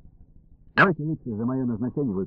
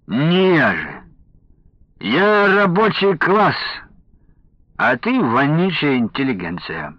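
put-on drunk taunting; 5 semitones higher, 3 dB louder, slower than usual.

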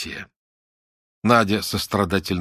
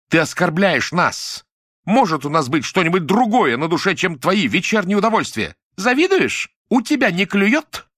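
outraged shout; 10 semitones higher, 4 dB louder than usual. A narrator's reading. Nadya lashes out at Lyuda, outraged shouting. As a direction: hurl every pent-up grievance at her. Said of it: "всё невысказанное кричало ей".

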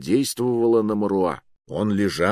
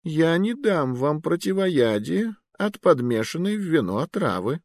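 put-on high, sly old sorcerer voice; old magister; 9 semitones higher than usual. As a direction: tease them as a cunning old wizard. Magister voice, held figure.

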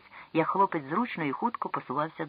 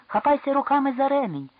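much higher and louder, full-force yell; frenzied shout; 10 semitones higher, 7 dB louder than usual. Acted. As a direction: yell with all he has, руками punched. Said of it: "крикнув несамовито Ел".

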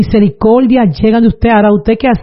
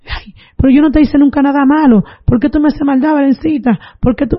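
imitated plaintive protest, raised pitch; pained reproach; 4 semitones higher than usual. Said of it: "comenzó a gritar duro". (queja lastimera imitada, voz más aguda)

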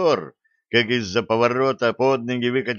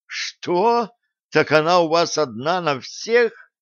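shocked outrage; 7 semitones higher, slower than usual. Acted. Stessi outraged surprise.

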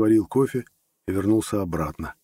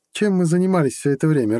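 tag; 8 semitones higher, 4 dB louder than usual. A narrator's reading. Girlfriend's indignant teasing question.

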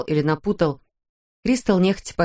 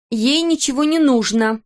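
insisting; 7 semitones higher, 3 dB louder than usual. A narrator's reading. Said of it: "клянилась Кристел".

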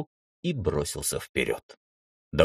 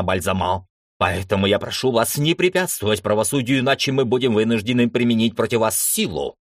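commanding address; 3 semitones higher than usual. Acted. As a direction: read out the law firmly. Baranov addresses the mob.

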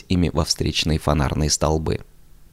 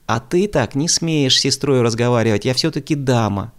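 raised, indignant protest; offended; 7 semitones higher, 3 dB louder than usual. A narrator's reading. Manya offended at her brother, raised and indignant. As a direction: stand on your dignity, hurt. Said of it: "обиделась Маня".

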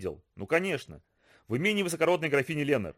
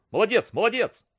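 high excited cheer; joyful; 6 semitones higher, 4 dB louder than usual. Acted. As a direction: jump for joy shouting. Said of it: "весело запрыгал".

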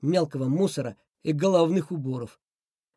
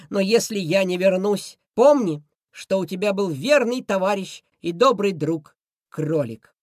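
touching farewell; 3 dB louder than usual. Acted. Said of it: "прощальные слова".

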